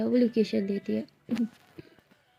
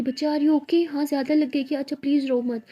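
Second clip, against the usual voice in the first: put-on soothing a child; 3 semitones higher than usual. Lily comforting hurt child.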